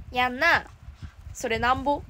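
lightly put-on Kansai lilt, playful; mild mock Kansai voice of a friend; Rena impression. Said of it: "ちなみにレナの真似。".

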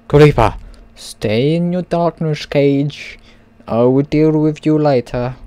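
hammed-up stern order; mock commanding. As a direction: banish the monster with playful menace. Mock-villain order to a game monster.

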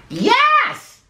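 high, gleeful witch's cry; sudden high-pitched yes. A narrator's reading. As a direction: shout it out high. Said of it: "cried the witch".

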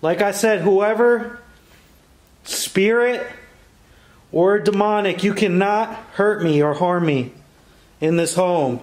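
defiant challenge. Real, not acted. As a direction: stand your ground against the demon. Challenging spirits aloud.

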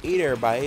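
put-on loud "Hey there, bye" with boy turned to "bye"; Newfoundlander pronunciation. Shown as a demonstration. Clearing up the word, "Hey there, bye" said as Newfoundlanders do. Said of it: "isn't me saying".

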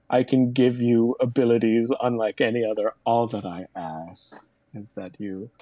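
grand solemn offer. Pretend.

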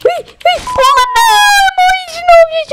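very high, loud squealing cry; high loud wail of dismay; panicked squeal. Real, not acted. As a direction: squeal in panic as you die. Dies again in the game.

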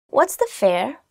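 usual speaking voice

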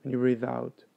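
calm, measured meditation guide; guided meditation. Acted. Meditation teacher guiding listeners to follow the breath, calm and unhurried. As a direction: lead them through it evenly, with long pauses.

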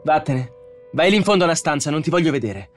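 high, furious shouted order; loud, angry dismissal; shouting. A narrator's reading. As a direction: drive the robot away with a shout. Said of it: "gridò al robot".

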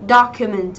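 "Document" as DOC-u-ment; stress on first syllable. Shown as a demonstration. Teacher modelling the noun, "Document" stressed on DOC. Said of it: "chúng ta có trọng âm giêm tiếp thứ nhất".

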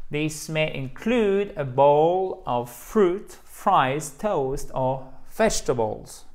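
slow, drawn-out reading with a long include; slow teacher reading. Shown as a demonstration. Teacher reads the menu sentence for learners, slowly. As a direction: read it out slowly, word by word. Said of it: "you've got to help us here".

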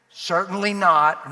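slow, loud, forceful "Certainly not"; emphatic. Shown as a demonstration. Preacher repeating Paul's answer to the congregation, emphatic. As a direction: hit "Certainly not" hard, drawing both words out.

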